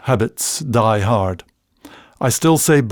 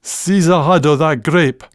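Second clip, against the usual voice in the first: Scots request; 3 semitones higher than usual. Shown as a demonstration. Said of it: "as in".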